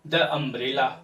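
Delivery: "the" in "the umbrella" as "thuh"; common mispronunciation. Shown as a demonstration. Teacher showing learners' mistake, "the umbrella" with "thuh". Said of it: "जो बहुत भारी mistake है".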